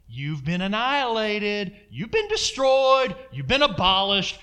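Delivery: firm, slow, commanding the devil; defiant rebuke to the devil. Retold or imitated. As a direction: declare it over him like a verdict. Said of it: "I just go".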